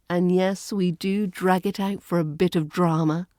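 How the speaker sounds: usual speaking voice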